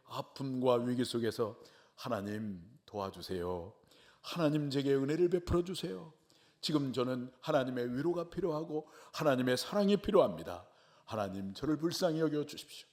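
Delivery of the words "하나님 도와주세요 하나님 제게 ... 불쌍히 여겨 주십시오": earnest plea. Retold or imitated. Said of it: "진실한 마음과 간절한 마음으로".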